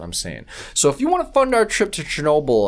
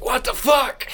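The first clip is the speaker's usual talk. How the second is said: much higher stunned exclamation; shocked reaction; 12 semitones higher, slower than usual. Retold or imitated. Host retelling a movie ending, mock shocked exclamation. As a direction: react as if the hero just blew up. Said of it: "and it's just like".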